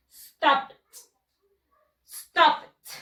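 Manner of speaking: "stopped" as one syllable ending in a crisp T; modelled "stopped" pronunciation. Shown as a demonstration. Teacher showing students the past tense, "stopped" pronounced "stopt". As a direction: say "stopped" as "stopt", loud and separate. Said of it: "Así se pronuncia".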